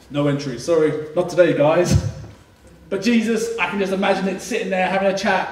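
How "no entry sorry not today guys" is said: mock bouncer disciples. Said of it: "the disciples there".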